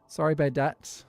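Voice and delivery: put-on loud, playful Irish-accented delivery. Streamer trying out a joke drag name, Irish accent. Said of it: "I'm saying it in a very Irish accent".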